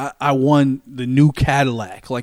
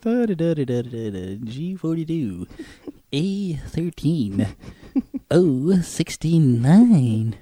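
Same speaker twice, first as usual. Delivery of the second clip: lazy sing-out of bingo numbers; imitated bingo caller; slower than usual. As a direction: drone the numbers out, stretching each. Mimicking coloring and bingo caller.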